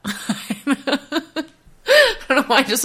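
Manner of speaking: giggling through the words; nervous giggle. Real, not acted. Coach giggling nervously before reading the quote, laughing. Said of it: "nervous giggled introing the quote".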